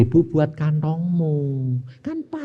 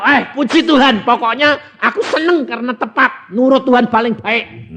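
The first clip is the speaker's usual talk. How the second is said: joyful praise; 10 semitones higher, 4 dB louder than usual. Retold or imitated. Joyful thanks after the gift.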